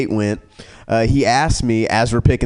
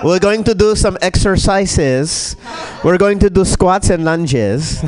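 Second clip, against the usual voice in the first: mock fitness instructor; 4 semitones higher, slower than usual.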